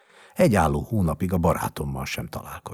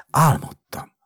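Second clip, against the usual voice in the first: put-on high, louder child's voice; waking child's voice; 10 semitones higher, 8 dB louder than usual. A narrator's reading. Sick boy sits up and speaks, in child's voice. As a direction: announce it as a small boy.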